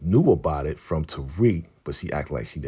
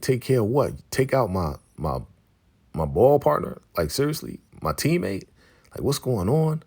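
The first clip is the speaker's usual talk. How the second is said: mock incredulous questions, jumping higher; retold disbelief; 5 semitones higher than usual. Zeke told to take out his teammate, incredulous. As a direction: act out baffled protest, pitch leaping up.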